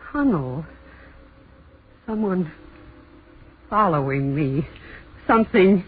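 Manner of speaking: hushed dread bursting into a cry; terrified horror victim. Acted. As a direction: whisper in fear, then cry out. Chased through a dark tunnel.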